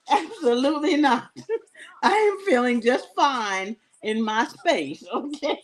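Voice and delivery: laughing while refusing; giggly, stubborn no. Real, not acted. Telling viewers she won't walk far, laughing.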